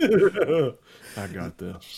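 very slow smug drawl; mocking a buddy's overconfidence, drawn out; mock cocky. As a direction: ham up a friend's false confidence. Mocking Josh's confidence.

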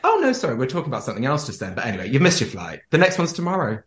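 high, breezy mock apology; airy bitchy agent; fake-innocent brush-off. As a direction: brush him off sweetly. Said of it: "you'd be like".

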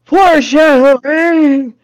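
drawn-out, loud, slow "Foreshadowing!"; slow, booming "Foreshadowing!" with a falling end; mock dramatic announcement. Real, not acted. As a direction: announce it like a movie trailer. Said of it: "very heavy-handed foreshadowing".

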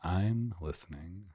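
slow echo of a catchphrase; Frasier Crane. Acted. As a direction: copy the slow radio-psychiatrist line. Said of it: "I'm Doctor Fraser Crane".

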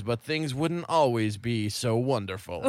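slow, lightly voiced TV narrator; slow it down like an ominous voice-over; a hint of music-documentary narration. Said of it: "the narrator says".

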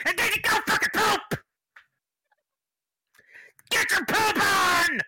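squeaky high finish. Pretend. Ad ends in squeal and whisper.

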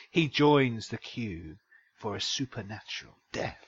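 low, ominous story narration; scary voice. Acted. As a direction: intone it gravely like a horror blurb. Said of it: "coming down into your scary voice".

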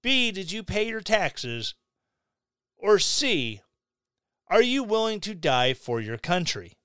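normal talking voice

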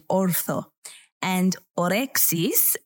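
ortho with a light Greek accent, falling. Shown as a demonstration. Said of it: "I feel I need to say that in a Greek accent".

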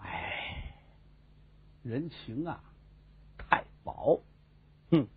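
whispered, self-pitying muttering; muttering to himself. Acted. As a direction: grumble the grievance under the breath, slow at the end. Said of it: "有人自言自语". (刘墉低声自言自语地抱怨)

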